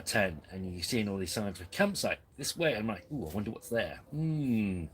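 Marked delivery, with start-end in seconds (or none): 3.1-4.8 lightly voiced, curious impression; a hint of a cartoon impression, ending on a drawn hum; Wallace and Gromit. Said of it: "That was my Wallace and Gromit impression".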